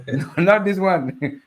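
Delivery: laughing through the words, slowly; a slow amused laugh while saying no. Real, not acted. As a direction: chuckle it out, amused. Laughing off scam messages.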